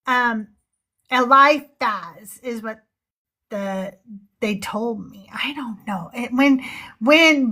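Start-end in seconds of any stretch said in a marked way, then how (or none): 1.1-2.4 Eliphaz sounded out as ee-LIE-fazz; careful name pronunciation. Shown as a demonstration. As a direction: say Eliphaz slowly, stressing LIE. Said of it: "phonetics on how to say the name".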